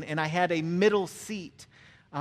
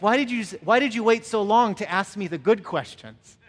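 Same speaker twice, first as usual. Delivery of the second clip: higher, louder, playful protest; mock exasperation; 5 semitones higher, 8 dB louder than usual. Preacher to seatmate as everyone leaves the plane, mock exasperated. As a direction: plead in comic disbelief.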